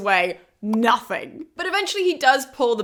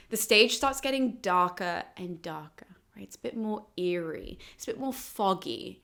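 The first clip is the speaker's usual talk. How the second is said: eerie whisper; 3 semitones lower, 8 dB quieter than usual. A narrator's reading. Eerie underworld scene description.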